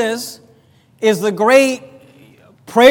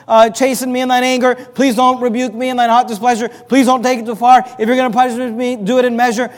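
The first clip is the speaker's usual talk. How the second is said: raised, louder begging plea; pleading; 3 semitones higher, 4 dB louder than usual. Retold or imitated. David begging God to spare his life, earnest pleading. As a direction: beg God desperately not to kill you. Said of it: "This is David pleading with God".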